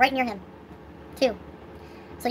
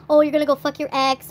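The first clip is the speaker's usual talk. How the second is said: mocking jealous boyfriend; 5 dB louder than usual. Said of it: "always saying".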